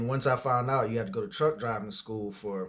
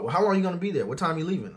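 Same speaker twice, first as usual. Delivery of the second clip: higher and louder, pressing and impatient; pushy boss; 6 semitones higher, 4 dB louder, much faster than usual. Retold or imitated. Demanding boss on the phone pushing a driver to work his day off. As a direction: needle him like a boss who won't take no.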